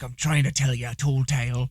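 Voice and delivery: West Country tall-tale teller; West Country accent. Shown as a demonstration. Admitting the accent's limits, storytelling West Country burr. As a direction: spin it like a West Country yarn. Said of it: "I can't really do it without sounding like".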